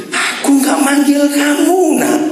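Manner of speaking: pitched well up, held high to the end; acted high-pitched answer of an annoyed-sounding elder; high intonation. Old priest Eli answering the boy's second call, high intonation. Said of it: "Pasti tinggi intonasinya".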